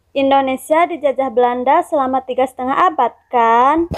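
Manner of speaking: tag question with a lift on "kan"; rising intonation. Shown as a demonstration. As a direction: raise the tune at the final "kan?". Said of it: "Contoh intonasi naik yaitu".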